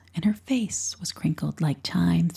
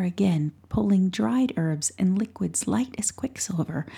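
whispered story. A narrator's reading. Narrator whispering a bedtime tale to a listener. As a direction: hush it like a secret story at night.

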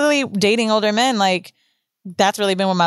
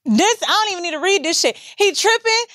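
in denial, dismissive; 9 semitones higher than usual. Retold or imitated.

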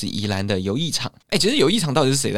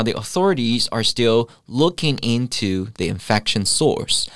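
slowed English example phrase; slower than usual. Shown as a demonstration. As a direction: say the example slowly and clearly. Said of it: "你当然也可以同时讲说". (放慢念出英文例句)

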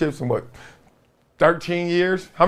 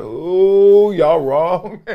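mock ooh comeback; 4 dB louder, much slower than usual. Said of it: "I was like".

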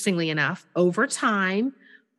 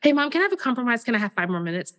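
put-on eager child; 4 semitones higher, much faster than usual. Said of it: "and he said".

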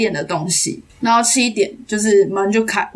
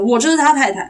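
mock loud, slightly raised; loud declaration; 4 semitones higher than usual. Barista imitating the widow's loud announcement, mild mock shout. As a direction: retell her outburst, half-voiced. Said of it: "然后很大声".

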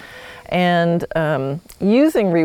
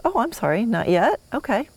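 higher, softened apologetic backing-off; polite apology; 4 semitones higher, 3 dB quieter than usual. Acted. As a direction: apologize gently to the horse, pitched up. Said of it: "you go".

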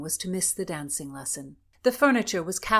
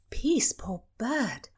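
soothing whisper; 4 semitones higher, much slower than usual. Acted. Comforting the upset lady.

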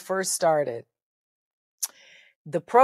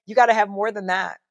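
emphatic; 3 semitones higher, 6 dB louder than usual. Real, not acted. Emphatic preaching about luck.

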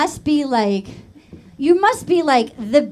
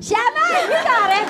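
high-pitched Rhode Island "Sean Martin", Rs dropped; exaggerated, high Rhode Island name call; Rhode Island accent; 8 semitones higher than usual. Shown as a demonstration. Host coaching guests on the accent, Rhode Island accent. Accent demo, cheering on the attempt.

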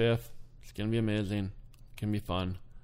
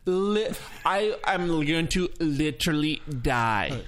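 mock millennial; slower than usual. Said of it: "they use it for everything".

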